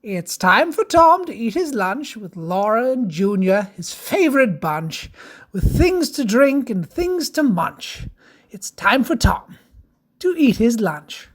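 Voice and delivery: lilting rhymed storybook read; sing-song rhyming verse; children's story narration. Acted.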